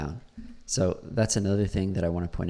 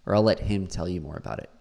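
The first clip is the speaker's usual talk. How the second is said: "him" lightly stressed; "him" said with a subtle emphasis; faster than usual. Shown as a demonstration. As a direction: lean gently on "him". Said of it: "Him is the emphasis here".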